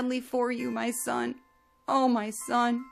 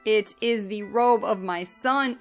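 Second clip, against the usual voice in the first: loud grieving cry; 4 dB louder than usual. Acted. Yaakov seeing Yosef's torn robe, grieving loud cry. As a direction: let the grief burst out loud. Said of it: "he cried out with a loud voice".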